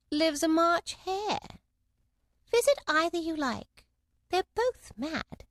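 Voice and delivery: slow, drawn-out Cheshire Cat; slow sly cat voice. Acted. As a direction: purr it out slowly like a grinning cat. Cat character voice.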